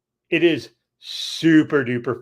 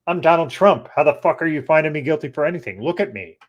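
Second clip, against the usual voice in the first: imitating Trump; 4 semitones higher, 5 dB louder, faster than usual. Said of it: "that's how he is".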